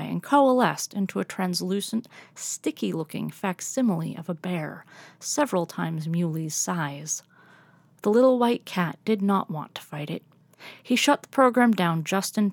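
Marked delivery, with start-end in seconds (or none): none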